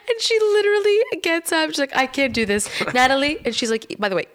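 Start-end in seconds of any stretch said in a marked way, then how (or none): 2.0-3.4 high, loud panicked plea; yelling across plane. Retold or imitated. Mom yelling across the plane to her daughter, loud panicked plea. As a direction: call out to your daughter in panic. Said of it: "now yelling across the whole plane".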